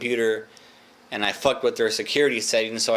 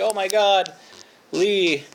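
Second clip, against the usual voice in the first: high, gasping imitation of the cleaning lady, much higher; shocked cleaning lady; 8 semitones higher, slower than usual. Cleaning ladies seeing my toe, imitated high gasp. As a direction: squeal it out like a horrified cleaning lady.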